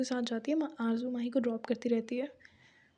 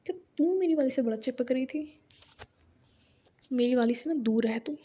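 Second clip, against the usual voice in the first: a touch louder jealous scolding; mock anger; 3 dB louder than usual. Tanvi scolds Shreya for getting close to Mahi, with mild anger. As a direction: warn her friend off, half-seriously. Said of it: "Tanvi गुस्सा थी".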